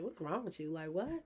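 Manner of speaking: loud, heated rant with the loudest peak near the end; retold cursing out. Mother yelling at her ex on the phone, loud and furious. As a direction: tear into him like you did on the phone. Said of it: "cursing him out".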